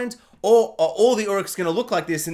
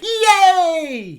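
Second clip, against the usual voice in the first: sarcastic yay; 9 semitones higher, 6 dB louder than usual. Real, not acted.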